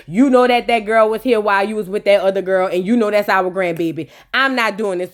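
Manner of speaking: stern dad. Retold or imitated. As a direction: lay it down flat and final. Stern father, voiced lower.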